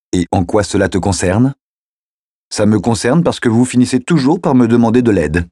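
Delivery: put-on a kid sure he is right, pressing his case; eager teenage boy. Teen boy voiced by narrator. (adolescent enthousiaste, voix plus aiguë)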